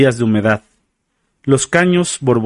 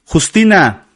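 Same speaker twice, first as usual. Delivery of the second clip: higher-pitched narrated cry of a name; calling out; 6 semitones higher, slower than usual. A narrator's reading. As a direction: call her name out, voice lifted high. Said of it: "Gritó".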